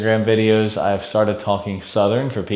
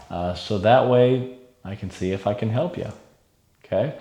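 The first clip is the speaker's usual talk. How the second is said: put-on soft, unhurried reassuring tone to an elderly client; calm mirroring; 4 dB quieter than usual. Shown as a demonstration. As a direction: ease her in gently and softer. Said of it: "that piece there, just with mirroring there".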